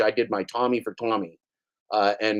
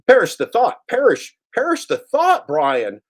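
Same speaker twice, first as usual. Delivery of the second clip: high, loud hammed-up dismay; theatrical mock horror; mock prissy voice; 12 semitones higher, 7 dB louder than usual. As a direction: gasp it like an offended dandy.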